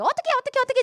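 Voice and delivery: high-pitched, flustered mock panic; acted panic. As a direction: play a crowd at a loss what to do. Acting out the panicking Israelites.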